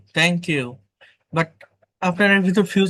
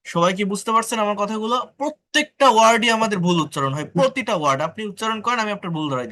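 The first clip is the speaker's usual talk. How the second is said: emphatic teacher; 5 semitones higher, faster than usual. Real, not acted. Teacher scolds class loudly.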